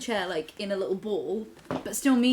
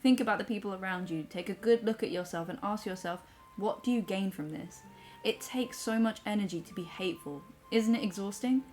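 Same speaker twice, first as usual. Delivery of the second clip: measured, softer read-aloud; reading a message aloud; 3 dB quieter than usual. Acted. Reads a viewer's comment aloud.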